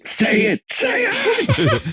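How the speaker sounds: high, laughing mock demand; hammed-up pushy Archer, laughing through it; mock pushy captain. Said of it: "two inches away from her face".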